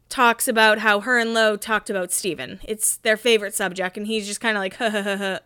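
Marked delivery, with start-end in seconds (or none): 4.8-5.4 awkward laugh. Retold or imitated. Podcaster imitates him as girls discuss him, awkward laugh. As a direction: imitate an uneasy "huh huh huh". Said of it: "like, awkward".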